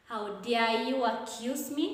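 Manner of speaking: mild demonstrated disbelief, "me" lifting at the end; disbelief, rising intonation. Shown as a demonstration. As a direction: act slightly affronted, raising the pitch on "me". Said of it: "to express surprise or disbelief".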